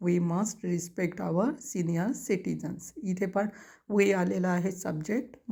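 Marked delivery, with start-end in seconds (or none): 0.1-2.8 each word spaced out for writing; slow dictation. Shown as a demonstration. Teacher dictating to students, very slow word by word.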